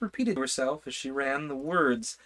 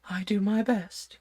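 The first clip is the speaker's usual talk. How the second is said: sulky; 8 semitones higher than usual. A narrator's reading. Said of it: "said in a sulky tone".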